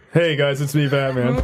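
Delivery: lightly deepened Batman voice; deep Batman voice. Shown as a demonstration. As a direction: drop the voice slightly for Batman. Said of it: "that's my deep voice".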